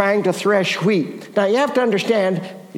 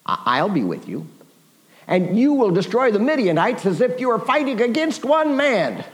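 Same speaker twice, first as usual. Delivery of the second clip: the Lord; 3 semitones higher than usual. Acted. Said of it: "Lord says".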